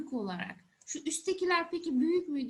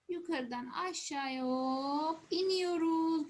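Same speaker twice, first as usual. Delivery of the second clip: slow writing demo; 2 semitones higher, slower than usual. Shown as a demonstration. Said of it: "shows how to write the letter".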